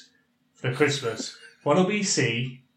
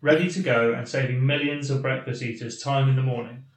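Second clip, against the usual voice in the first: measured read-aloud of a listener's email; deliberate, articulate email reading; slow, clear reading. Real, not acted. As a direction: read the letter out carefully and clearly. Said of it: "I'll read it slowly, yeah, and hopefully clearly".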